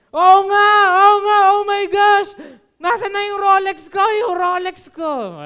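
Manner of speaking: high, loud frantic yelling; panicked shout. Retold or imitated. Businessman yelling for his lost Rolex, high frantic shout. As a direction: shout in mock panic over the watch. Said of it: "So sabi niya".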